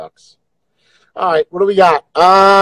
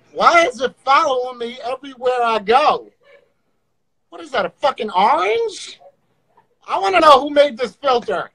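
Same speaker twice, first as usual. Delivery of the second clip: panicking gamer; 3 semitones higher than usual. Real, not acted. Panicking at filter.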